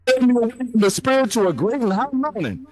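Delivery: mic cutting out; choppy broken-up audio; bad connection. Real, not acted. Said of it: "your mic is cutting out".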